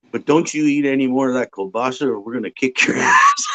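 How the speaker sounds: mock shouted threat at a buddy; joking shout. Joking warning to friend.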